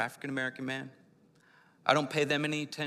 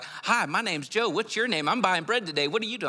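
overly friendly stranger; 6 semitones higher, 5 dB louder than usual. Retold or imitated. Mocking a chatty friendly stranger, high and cheerful. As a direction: ham up a chirpy small-town stranger. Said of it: "They're like".

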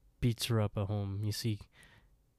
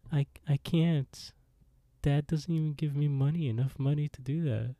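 timid sister; 5 semitones higher than usual. Retold or imitated. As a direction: plead weakly as the little sister. Sister voiced, timid reply.

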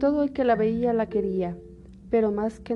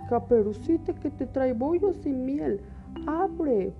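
put-on wolf faking a girl's voice; 4 semitones higher, slower than usual. El lobo finge ser Caperucita.

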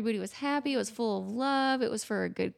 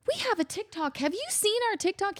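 high quoted technician; 9 semitones higher than usual. Retold or imitated. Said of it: "one of the technicians goes".

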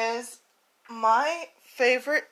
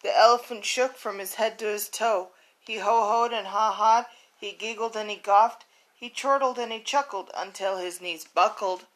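lively picture-book storytelling voice; reading a story aloud. A narrator's reading. Podcaster reads her childhood book to listeners, storytelling voice. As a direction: read it like a bedtime story for kids.

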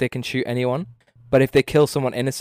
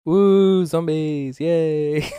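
mock cheer; 3 semitones higher, much slower than usual. Mock cheer about zombie mode.

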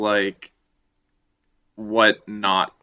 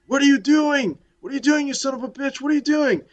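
panicked victim; 5 dB louder than usual. Retold or imitated. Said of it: "they say to him, like".

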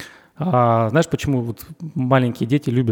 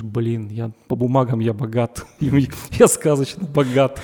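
laughing gloat. Retold or imitated. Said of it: "ты думаешь".

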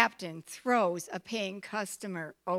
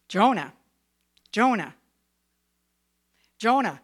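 booming divine call, louder each time; 4 dB louder than usual. Acted. God calling Jonah.

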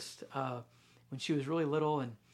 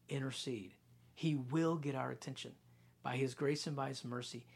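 soft preaching; 2 semitones lower, 4 dB quieter than usual. Acted.

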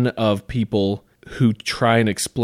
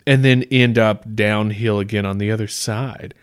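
slow, deliberate mock challenge; lightly voiced creationist, laying out the puzzle slowly; imitating creationists. Creationist challenging scientists on the Grand Canyon, mock challenge. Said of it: "they were like, they're like".

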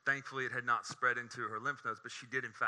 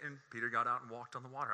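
deadpan, matter-of-fact imitation of the writer; understated; 3 dB quieter than usual. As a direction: toss off the miracle as no big deal. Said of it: "he's so understated".

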